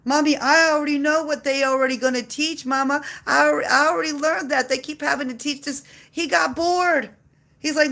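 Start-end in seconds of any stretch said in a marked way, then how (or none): 0.0-5.8 put-on child. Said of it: "you know why?".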